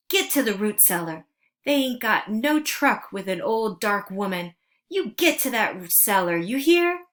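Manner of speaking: urgent command. Acted. Momo Bay hides children from raiders.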